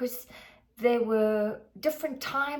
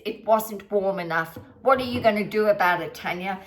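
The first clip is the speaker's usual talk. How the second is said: mimicked bark; 2 semitones lower, 6 dB louder, faster than usual. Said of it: "would just bark back".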